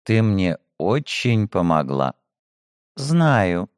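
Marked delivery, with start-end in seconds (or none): 3.0-3.7 femme fatale purr. Acted. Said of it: "мурлыкнула Ягужинская".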